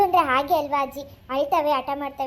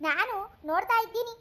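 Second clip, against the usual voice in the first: exasperated, higher-pitched grandma; scolding; 5 semitones higher than usual. Acted. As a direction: hush a child who won't stop crying. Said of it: "ನೀವು ಬೇರೆ ಬೈತಾನೆ ಇದ್ದೀರಲ್ಲ". (ಗದರಿಸುತ್ತಾ)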